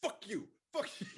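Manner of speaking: high, loud screams of no; mock terrified screaming. Friend showing how she reacts to scary films, mock terrified screaming. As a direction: scream no at the screen in mock terror. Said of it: "there I am going".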